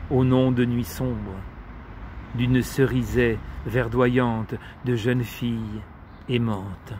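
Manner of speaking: measured poetry reading with long pauses; poem recitation. Acted. Reciting Shevchenko's poem to listeners in homage, measured poetry recitation. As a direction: recite it as verse, pausing between phrases.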